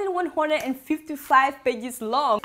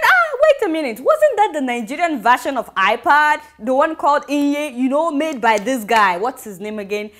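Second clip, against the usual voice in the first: laughing disbelief; 5 dB louder than usual. Retold or imitated. Calling out the ministry's iPad claim with laughing disbelief. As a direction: catch them out mid-laugh. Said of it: "I said".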